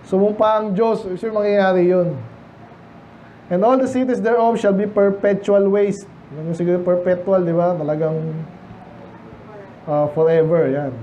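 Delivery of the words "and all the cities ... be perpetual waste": slow, deliberate Bible reading; scripture reading. Acted. Preacher reading verse to the congregation, slow and solemn. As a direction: read the verse slowly and solemnly.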